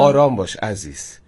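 low, slow reassurance; soothing. Acted. Guest repeats the calming sign text for host, soothing. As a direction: say it slowly, calming them down.

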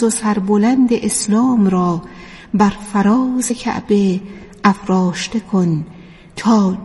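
measured, reverent recital with long pauses; devotional poetic recitation. Acted. Radio presenter addresses the awaited Imam in poetic prose, devotional recitation. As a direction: recite it as a heartfelt address, phrase by phrase.

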